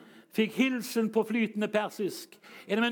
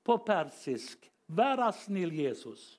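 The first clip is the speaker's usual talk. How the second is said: imitating refugee prayer; slower than usual. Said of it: "evne til å etterligne folk".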